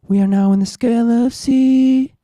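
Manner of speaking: sing-speak it through pitch correction; robot voice. Real, not acted. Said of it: "I sound like a robot".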